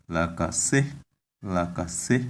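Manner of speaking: la ka se with the tone on the last e; tone on final e. Shown as a demonstration. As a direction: put the tone on se in la ka se. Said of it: "the tone is on the last, uh, vowel, e".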